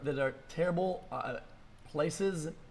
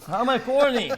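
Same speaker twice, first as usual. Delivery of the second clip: higher, loud, indignant outburst; 8 semitones higher, 10 dB louder than usual. Real, not acted. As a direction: shout it back in disbelief. Streamer annoyed at chat.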